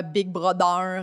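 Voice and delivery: slow "Big Brother" as "big brodeur"; French accent. Retold or imitated. Texting a friend at random to tease her, French-accented "Big Brother". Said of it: "écrit comme le nom de famille".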